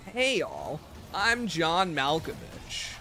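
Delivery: slow, drawn-out Malkovich imitation; Oz impression. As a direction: lightly mimic a languid Malkovich. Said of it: "your best Oz impression".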